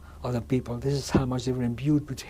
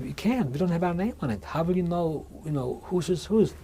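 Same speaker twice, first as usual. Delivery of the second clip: slightly raised pitch, mildly pleading objection; retold protest; 4 semitones higher than usual. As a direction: object anxiously, as if quoting yourself. Prisoners protesting to the soldier.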